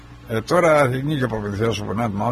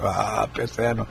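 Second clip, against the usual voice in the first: slow, much softer, a feeble mock groan; mock faint dying voice; 5 semitones lower, 8 dB quieter, slower than usual. Narrator mocking a dying friend's call, slow and faint. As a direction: play the weak dying man he wasn't. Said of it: "Δεν ακούγονταν για εξασθενημένος".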